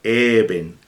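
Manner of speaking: Eben said slowly and clearly; pronunciación lenta de Eben; read aloud demo. Shown as a demonstration. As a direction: model the word Eben for students. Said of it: "Se lee Eben".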